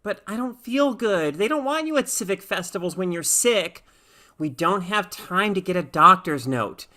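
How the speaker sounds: a hint of a sick kid begging to stay home; pleading girl. Sick Lisa pleads with mother.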